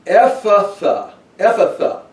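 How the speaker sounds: high, slow, ringing command; Jesus commanding. Acted. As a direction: proclaim it slowly like a healing word. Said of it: "And then he says".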